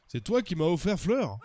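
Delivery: wobbly put-on Russian accent; mock Russian-German accent. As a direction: question in hammed-up Russian accent. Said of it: "j'ai du mal à tenir l'accent russe".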